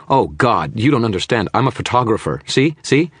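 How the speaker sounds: high, loud, frantic protest; scared man talking fast and high; panicked babbling. Acted. Frightened babbling photographer.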